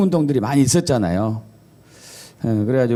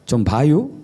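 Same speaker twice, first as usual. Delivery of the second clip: brief Chungcheong accent, rising ending; Chungcheong dialect. Shown as a demonstration. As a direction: keep it terse, in Chungcheong dialect. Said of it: "충청도".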